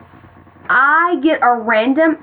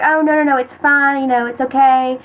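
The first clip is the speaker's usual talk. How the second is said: sweet reassurance; 3 semitones higher than usual. Retold or imitated. Boy accepting her apology, sweetly. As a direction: imitate him hurrying to excuse her. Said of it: "he was really sweet".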